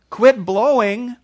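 high, drawn-out pleading; what Jesus didn't say, sung out high and slow; mock gentle plea. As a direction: coax the wind like a child. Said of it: "he didn't say".

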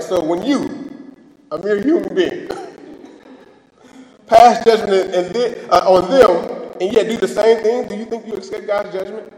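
light mocking read of the verse, with a laugh; reading scripture with a hint of a mocking chuckle; sarcastic reading. Shown as a demonstration. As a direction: let the sarcasm in the verse show through. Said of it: "Can you hear the sarcasm in the text too? ... when I read this".

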